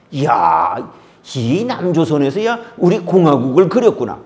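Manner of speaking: lightly done Pyongyang dialect; North Korean accent. Retold or imitated. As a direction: exclaim with a North Korean lilt. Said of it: "북한 말투로 좀 얘기했습니다".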